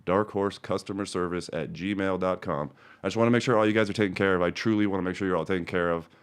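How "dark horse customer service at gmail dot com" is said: "dark horse customer service at gmail dot com" said slower and clearly; slower, careful. Shown as a demonstration. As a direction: spell it out slowly so they get it right. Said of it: "say that again".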